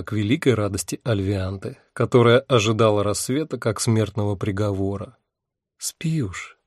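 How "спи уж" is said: breathy whisper, no voice at all. A narrator's reading. She whispers to the drowsy demon to sleep. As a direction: hush him to sleep in a whisper. Girl lulls tired demon.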